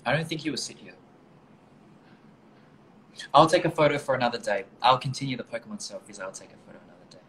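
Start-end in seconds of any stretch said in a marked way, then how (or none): 3.3-4.7 a louder, brighter announcement; said out to the room, louder; louder first take. Real, not acted. Repeats a line to camera. 6.2-7.2 much softer aside to oneself; a quiet, muttered echo; soft repeat. Real, not acted. Repeats a line to camera.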